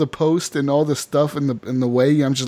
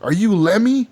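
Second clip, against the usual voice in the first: higher, slurred mock-drunk question; slurring drunk; 5 semitones higher than usual. Drunk player asking the next person, imitated slurring. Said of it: "you're all slurring your words".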